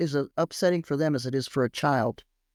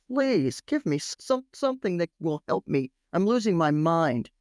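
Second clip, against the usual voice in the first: tag. Acted. Desperate man begs rabbi for help.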